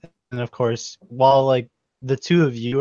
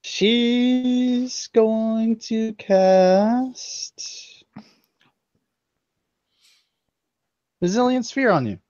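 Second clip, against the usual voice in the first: dramatic whisper; 11 semitones higher, much slower than usual. Acted. GM announces spell dramatically.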